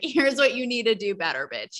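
lightly voiced blunt guy telling her off; a hint of a crude boss giving it straight; blunt male boss. Voicing blunt male bosses.

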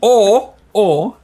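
loud, high stammer; loud flustered stammer. Retold or imitated. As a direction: blurt it out loud. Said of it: "le dije".

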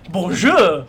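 mock commentator exclamation; announcer's block call. Fan imitates the announcer on a Boucher block, punchy call. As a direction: call it out like a broadcaster. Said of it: "or when, when, uh, Boucher hits a block".

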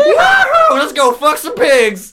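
put-on very high, loud, slow hillbilly whoop in a Southern accent; mock Southern accent with laughter. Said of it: "my impression of the Southern".

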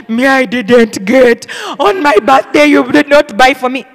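imitated child's grievance, drawn out; loud, slow mock complaint; complaining child. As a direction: play a child protesting over a missed gift.

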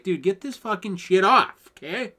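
loud, exasperated demand; annoyed yelling. Retold or imitated. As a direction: snap it out high and loud. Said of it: "I'm like".

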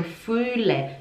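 fühle with a drawn-out ü; long Ü. Shown as a demonstration. Teacher repeats the long vowel, lengthened fühle. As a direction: hold the ü of fühle. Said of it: "É um U longo".

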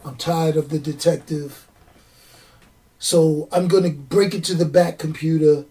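lightly voiced villain, weary and measured; a hint of a comic-book villain's voice; Ra's al Ghul. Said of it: "I'm trying to do a Ra's al Ghul impression".

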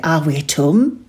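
quick East Suffolk, home clipped as ʊ̃m; short dropped-h East Suffolk home; East Suffolk accent. Shown as a demonstration. Football fan asking if the team is at home. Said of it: "you'll say".

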